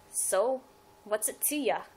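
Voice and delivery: lightly voiced redneck attitude, half-joking; a hint of a Daryl Dixon Southern twang; tough-guy Southern accent. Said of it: "I don't know why I did that kind of accent".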